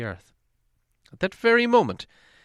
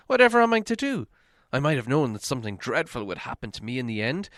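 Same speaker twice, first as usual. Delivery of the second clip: Bilbo, fretful. Acted. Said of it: "he thought".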